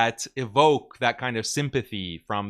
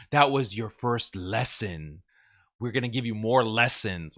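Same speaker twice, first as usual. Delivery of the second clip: mock tough girl; 3 dB quieter than usual. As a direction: parody her fake intimidation. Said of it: "talking tough".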